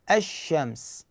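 الشمس said slowly, lam merged into a doubled sh; assimilated lam in الشمس. Shown as a demonstration. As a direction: say الشمس as ash-shams, slowly. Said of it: "ندغمها اللام الشمسية". (الشمس باللام مدغمة في الشين وببطء)

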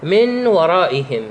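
measured, slow recitation of the verse; slow Quran recitation. Shown as a demonstration. Teacher reciting an example verse to students, slow and measured. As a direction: recite "من ورائهم" slowly and evenly, as a tajweed example. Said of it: "وكذلك مثل قوله تعالى".

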